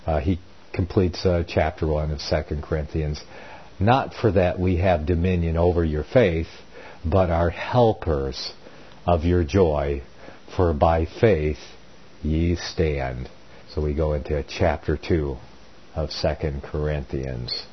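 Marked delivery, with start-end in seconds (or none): 3.8-13.3 slow phrases with pauses between; measured, formal Bible reading; scripture reading. A narrator's reading. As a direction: read the verse out deliberately. Reads scripture aloud amid own commentary.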